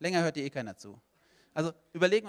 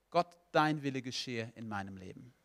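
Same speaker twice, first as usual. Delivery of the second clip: lower, measured prayer of surrender; praying to God; 4 semitones lower than usual. Acted. Believer hands their life to God, lowered prayerful voice. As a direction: drop down and pray it simply. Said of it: "Indem du sagst".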